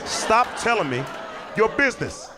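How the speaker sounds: high, exasperated cop shout; fed-up yell. Retold or imitated. Cop yells at both roommates, high and fed up.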